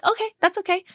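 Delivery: calm yourself down mid-panic; soothing self-talk. Retold or imitated. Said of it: "I'm just talking to myself".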